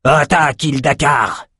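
plus haut, il lance l'ordre avec rage; ordre furieux. Acted. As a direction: crie l'ordre d'attaque. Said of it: "explosa Outros". (ordre crié avec colère)

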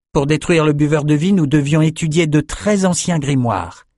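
put-on young man boasting of a marvel; eager young Bannon. Bannon telling drinkers about the archives, eager high voice.

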